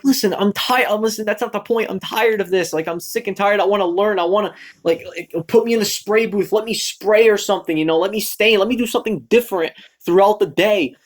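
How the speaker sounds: exasperated mock argument, voice lifted; fed-up pleading. Retold argument pleading for other work.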